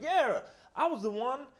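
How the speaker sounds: loud, high-pitched character voice; movie character impression. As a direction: play the boastful character big. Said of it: "not saying it quite black enough".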